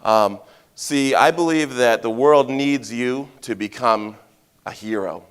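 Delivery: ordinary talk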